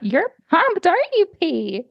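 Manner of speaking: high, sing-song pet talk; cooing to the cat. Real, not acted.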